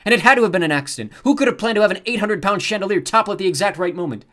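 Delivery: loud, high, grief-stricken indignation; pompous and powerful. A narrator's reading. Luke faking a grief-stricken heir to the head guard. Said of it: "sound every bit as pompous and powerful".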